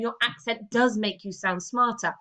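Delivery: firm statement with DOES stressed. Shown as a demonstration. Teacher showing students the statement version, stress on "does". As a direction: lean on "does" to assert it. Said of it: "It's not a statement".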